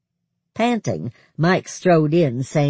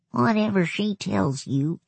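hoarse whisper; 6 semitones higher than usual. A narrator's reading. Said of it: "he said in a hoarse whisper".

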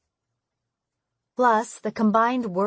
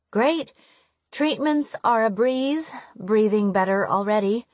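higher-pitched, breezy reassurance; put-on cheer for a worried mom; upbeat reassurance; 3 semitones higher than usual. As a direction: brush the worry off brightly.

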